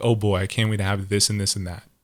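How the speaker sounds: usual speaking voice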